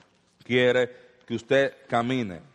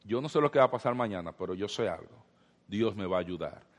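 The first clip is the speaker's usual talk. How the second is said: confianza serena; 5 semitones lower, 6 dB quieter than usual. Acted. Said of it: "Usted puede relajarse sabiendo".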